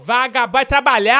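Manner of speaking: loud, high comic rant of accusation; mock furious yelling. Host yelling at the caller he blames for stolen sausages, furious. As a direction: bellow at him like a robbed neighbour.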